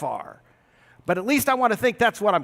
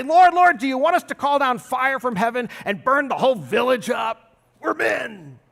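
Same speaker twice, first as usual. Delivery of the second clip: eager disciples calling; 2 semitones higher than usual. Retold or imitated. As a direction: cry out Lord like hotheaded disciples. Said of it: "two of the disciples come back to Jesus and say".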